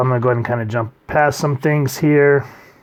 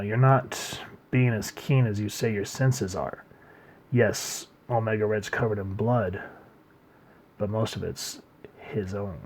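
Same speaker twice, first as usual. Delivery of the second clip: calm; 3 semitones lower, 8 dB quieter than usual. Retold or imitated. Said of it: "Magneto just calmly says".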